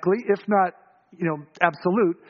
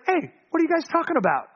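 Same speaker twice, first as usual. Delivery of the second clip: Jesus; 8 semitones higher than usual. Acted. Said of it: "Jesus is hilarious".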